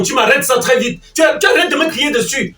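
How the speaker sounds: high-pitched, exasperated demand. Acted. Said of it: "ne me crie pas dessus".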